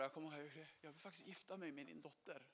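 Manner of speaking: very soft, close to her ear; mild retold whisper. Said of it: "jag viskar i hennes öra".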